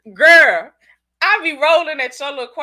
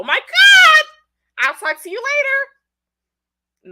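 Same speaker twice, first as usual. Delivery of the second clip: much higher, drawn-out, gushing professional; 10 dB louder, much slower than usual. Shown as a demonstration. Signing off a demo client call, exaggerated professional. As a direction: overdo the professional voice, high and stretched out. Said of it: "give you my professional voice".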